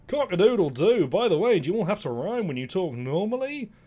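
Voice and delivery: high, loud crowing rooster. Acted. Rooster asks the others about rhyming, loud high crow. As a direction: crow the question like a cheeky rooster. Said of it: "the loud rooster said something else".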